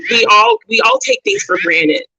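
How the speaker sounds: we all take things for granted said in a sudden very high voice with all stressed; high-pitched restatement. Shown as a demonstration. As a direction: squeak it up high for emphasis. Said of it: "don't get me wrong".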